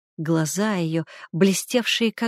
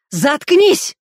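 loud, higher furious roar; 7 semitones higher, 8 dB louder than usual. A narrator's reading. Brother roaring at his sister, furious. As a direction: roar at her to shut up. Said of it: "взревел Константин Сорокин".

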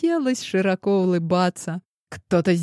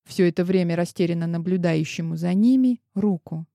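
ordinary delivery, nothing marked

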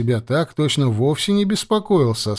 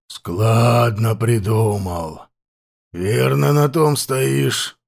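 put-on slow, rasping voice of an old chief; hoarse chieftain; much slower than usual. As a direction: question him slowly and hoarsely. Hoarse chieftain questions captive.

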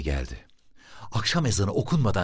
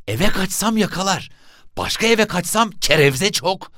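put-on high, louder boy's voice; high-pitched young schemer; boy thinking aloud; 13 semitones higher, 5 dB louder than usual. A narrator's reading. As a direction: weigh escape routes in a high child's voice. Boy thinking out his escape.

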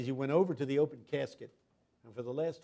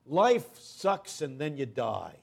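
slow, louder, deadpan cynic; cynical student quote; 6 dB louder, much slower than usual. Retold or imitated. Preacher quoting a cynical student, slow and deadpan. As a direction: drag it out like a jaded student. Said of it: "as one of my students said".

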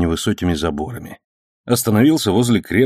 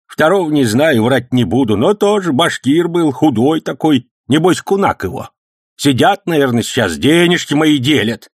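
put-on high, loud excited old man's story; heated old man; 7 semitones higher, 4 dB louder than usual. A narrator's reading. Old man heatedly telling the policeman about the attack. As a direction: rattle it off fired up.

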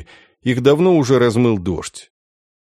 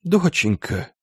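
higher-pitched, grieving cry; acted tearful lament; sobbing; 5 semitones higher, 3 dB quieter, slower than usual. A narrator's reading. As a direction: call to a lost child through sobs. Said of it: "рыдая, гладил мокрые волосы".

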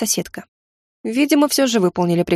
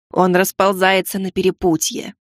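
slow, hushed urgent exclaim; muted cry of alarm; gargoyle. Acted. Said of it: "приглушенно воскликнула Янтарь".

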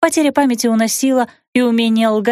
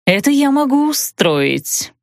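желчно; 7 semitones higher, slower than usual. Acted. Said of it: "желчно пообещала ведьма".

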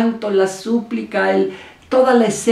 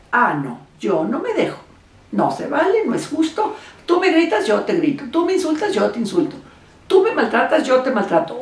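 raised, indignant tit-for-tat, pitch jumping high on each "Tú me"; defiant counterattack; 3 semitones higher than usual. Acted. Partner hitting back in a fight, indignant and raised. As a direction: throw the insult right back at your partner.

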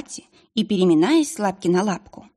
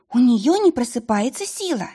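tearful cry; 5 semitones higher than usual. Acted. Girl sobbing explanation.

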